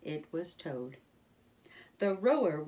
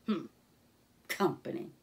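grumpy badger grunt; 4 semitones lower than usual. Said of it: "then grunted".

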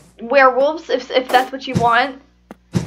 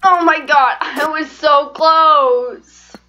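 anguished frustration; 3 semitones higher, 3 dB louder, slower than usual. Real, not acted. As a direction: lament a near miss, stretching the end. Just died near the goal.

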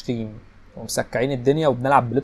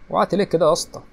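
surprised; 6 semitones higher, 3 dB louder than usual. Real, not acted. Player falls in game.

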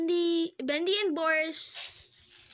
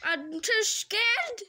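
acted frightened plea; 5 semitones higher, slower than usual. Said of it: "He's like".

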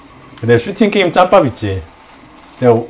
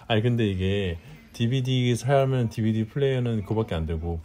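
hushed voice; 6 semitones lower, 12 dB quieter than usual. Real, not acted. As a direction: softly, still hushed. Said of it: "조용히 해".

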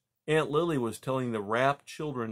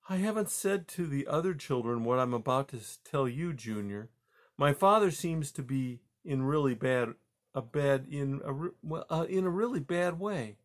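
lightly voiced mother, faltering over hard news; hesitant mother mouse; 4 semitones higher than usual. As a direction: confide in your son, searching for words. Mother mouse confides in son.

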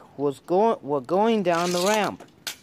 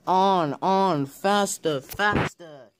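yelled; 3 semitones higher, slower than usual. Acted. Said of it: "yelled the coaches".

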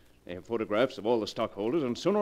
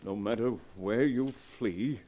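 slow, menacing read of a threat; ominous letter reading; slower than usual. Acted. Morgan reading the killer's letter aloud, slow and ominous. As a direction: let each line hang like a curse.

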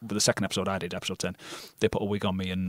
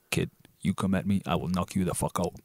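put-on a light Canadian accent, tough-guy threat; lightly voiced Canadian enforcer warning a kid; Liev Schreiber Canadian accent; 2 semitones lower than usual. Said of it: "I can just pull out a Canadian accent".

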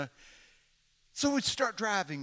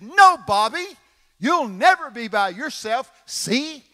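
heavenly voice; 8 semitones higher, 14 dB louder, slower than usual. Retold or imitated. Voice from the wind speaks.

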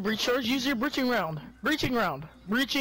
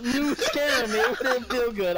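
laughing; 2 semitones higher than usual. Real, not acted. Laughing after scare.

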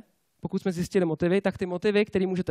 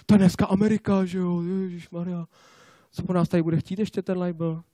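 bad inner whisperer; 2 semitones lower than usual. Bad inner voice complaining about the day, weary grumble. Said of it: "špatný našeptávač".

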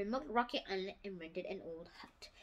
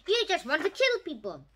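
accusing; 5 semitones higher, 6 dB louder than usual. Acted. Captain accusing the monster.

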